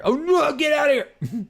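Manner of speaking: high-pitched cry cutting in; mock outraged refusal. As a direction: blurt it as a squealed dismissal. Acted rejection of the pitch.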